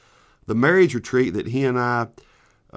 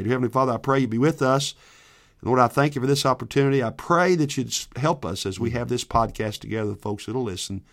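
spoken prayer. Real, not acted. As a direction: pray simply, easing down toward the amen. Leads an opening prayer.

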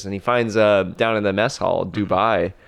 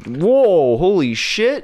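loud, high alarmed shout; startled yell; 10 semitones higher, 5 dB louder, much slower than usual. Acted. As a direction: yell out as the crew recoils in shock. Crew shocked by foaming Dubai.

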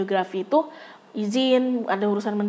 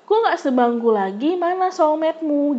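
mocking tease; 5 semitones higher than usual. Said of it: "kayak ngejek gitu".

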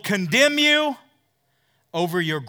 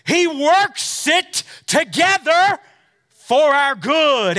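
higher, louder preaching with shouted peak; full-force preaching; 7 semitones higher, 8 dB louder than usual. Acted. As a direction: preach it hard at the crowd.

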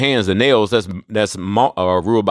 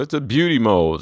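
lightly voiced prissy model defending a flaw; mock-sweet celebrity voice; mocking Cindy Crawford. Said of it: "Talking about".

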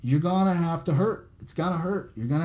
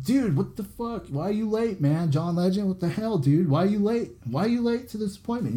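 higher pitched, hammed-up outrage at a late guest; mock angry yell; 5 semitones higher than usual. Scolding a singer for showing up late, mock angry yell. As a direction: pretend to chew out a late celebrity. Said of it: "You wouldn't yell at him".

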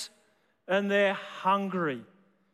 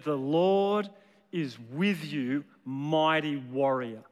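voice of God; 5 semitones lower, slower than usual. Acted. God greets hiding Gideon.

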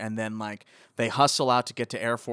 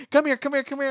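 mock calling a dog; 4 dB louder, faster than usual. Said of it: "they call".

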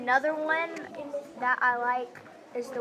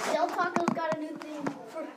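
higher-pitched commercial-style quote; meme quote imitation; 5 semitones higher, 3 dB quieter than usual. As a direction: recite the botched slogan in a raised voice. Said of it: "and she goes".

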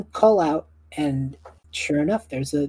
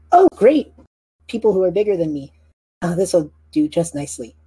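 brownie lady voice; 3 semitones higher, 4 dB louder than usual. Acted.

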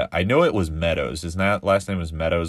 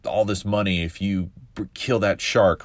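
a hint of a mob boss offering money; lightly voiced grieving mom turned gangster; mafioso mom; 2 semitones higher than usual. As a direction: mom bribing the town to kill the shark, mock mob boss. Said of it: "she's going all mafioso on this shark".

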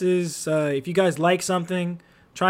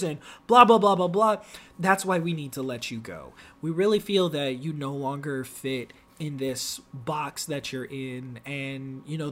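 corporate HR voice; 4 semitones lower, 4 dB quieter than usual. Retold or imitated. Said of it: "They are really like".

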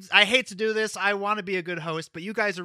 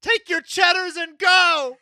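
higher, louder yell; shouting; 11 semitones higher, 5 dB louder than usual. Acted. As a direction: shove them out with a shout. Shouting players away.

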